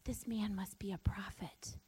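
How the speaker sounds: whispered amazement of the townsfolk; amazed crowd. Retold or imitated. Crowd in Nain after the miracle, awed whisper. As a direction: hush it like stunned onlookers. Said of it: "all the people were like".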